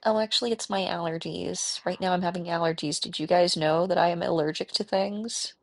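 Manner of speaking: mock her mother's apologetic allergy whine; playful impression of a fussy mother; imitating mother. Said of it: "That's the voice that I do".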